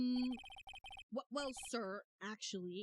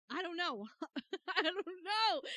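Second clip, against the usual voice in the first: louder, testing a character voice; trying out voices; 6 semitones higher, 7 dB louder than usual. Shown as a demonstration. Streamer testing a voice for Grossberg, louder each try. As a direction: search for the old lawyer's voice out loud. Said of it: "What voice do I want to give him?".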